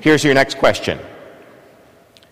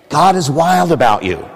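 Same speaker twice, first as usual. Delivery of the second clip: preacher's proclamation; 4 semitones higher than usual. Real, not acted. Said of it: "I'm a preacher. I'm authorized to speak for him".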